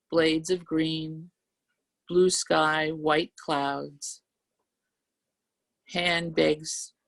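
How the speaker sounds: slow, measured poetry reading; unhurried open-mic poem delivery. Acted. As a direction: savour each image slowly. Reads her poem aloud.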